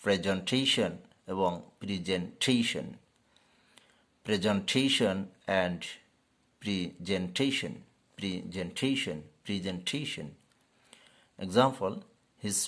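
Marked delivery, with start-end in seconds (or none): 0.0-2.9 প্রেজেন্টেশন said prez-en-TAY-shun; teacher's correct প্রেজেন্টেশন; correct presentation. Shown as a demonstration. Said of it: "এর সঠিক উচ্চারণ হবে". 4.3-10.3 "presentation" said prez-en-TAY-shun; repeated model of "presentation"; correct presentation. Shown as a demonstration. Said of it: "এর সঠিক উচ্চারণ হবে".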